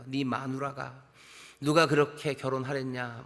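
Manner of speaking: lightly voiced jab at a child's marriage; understated taunt from a parent; mocking parent. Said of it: "뭐, 이런 거예요".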